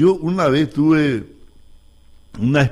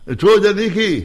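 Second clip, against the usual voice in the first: higher-pitched, drawn-out mock holler; imitated yell; 5 semitones higher, slower than usual. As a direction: call it out slowly like a retold shout. (grito imitado, agudo y alargado)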